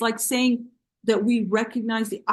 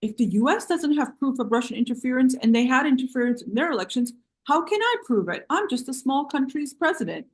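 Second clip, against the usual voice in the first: mocking; 4 semitones higher than usual. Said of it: "She was like".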